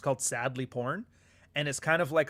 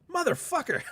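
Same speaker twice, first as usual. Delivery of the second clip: stunned curse. Retold or imitated. Realizes he's been tricked by book.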